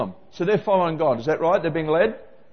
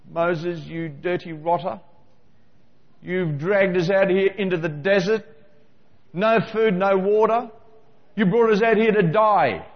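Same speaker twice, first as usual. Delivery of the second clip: grumbling Israelites. Retold or imitated. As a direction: gripe at Moses like a fed-up mob.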